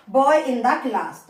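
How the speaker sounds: very slow, words apart; slow dictation. Shown as a demonstration. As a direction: read it for copying. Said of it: "teacher dictates phrase". (धीरे-धीरे बोलना)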